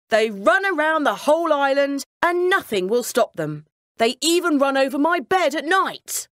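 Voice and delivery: a king at his wits' end over the rats; troubled king pleading for help; fretful king. Acted. King complains about the rats.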